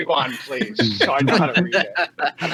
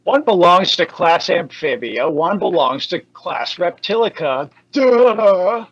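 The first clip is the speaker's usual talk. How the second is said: scoffing; much slower than usual. Acted. Spiky-haired duelist schooling Damien, scoffing. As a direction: scoff at an obvious mistake. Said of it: "the spiky-haired duelist scoffed".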